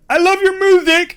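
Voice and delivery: high, loud starstruck fan; gushing fan. Retold or imitated. Mock fan gushing at a rapper.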